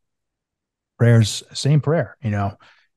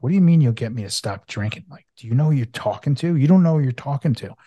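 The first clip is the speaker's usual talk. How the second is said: retold anger; 4 semitones higher than usual. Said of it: "I got pissed".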